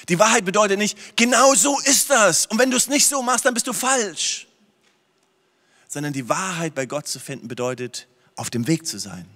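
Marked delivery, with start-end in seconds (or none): 1.2-4.5 preacher mocking a dogmatic believer, sing-song; mock know-it-all. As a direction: parody the self-righteous.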